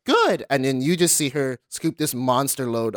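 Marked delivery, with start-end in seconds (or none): 0.1-0.5 mock auntie. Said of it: "she's like".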